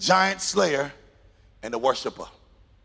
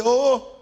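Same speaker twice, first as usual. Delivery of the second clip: "Oh" raised in pitch for emphasis; emphatic African "oh"; 4 semitones higher than usual. Shown as a demonstration. Preacher showing how Africans say it, emphatic "Oh". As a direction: give "Oh" an emphatic higher lift. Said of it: "It's emphasis. It's the emphatic".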